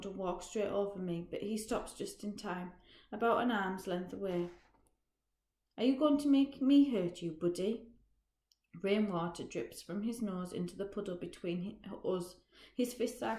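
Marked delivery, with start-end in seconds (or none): 5.8-7.9 threatening. Acted. Roger threatens narrator in alley.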